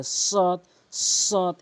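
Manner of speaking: সদ with tongue tip at the teeth edges; Arabic sad demo. Shown as a demonstration. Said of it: "এভাবে উচ্চারণ করবেন". (সদ জিহ্বার আগা দাঁতের আগায় লাগিয়ে)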